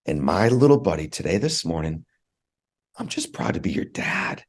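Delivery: getting emotional. Real, not acted. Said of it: "I'll get emotional".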